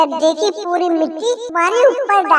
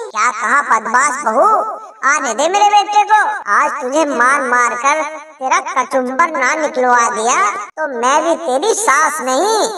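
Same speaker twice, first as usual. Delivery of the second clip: put-on a lower, needling old mother-in-law; mother-in-law taunting her bahu, lightly lower voice; lightly voiced taunting mother-in-law; 3 semitones lower than usual. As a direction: goad the daughter-in-law, a touch lower.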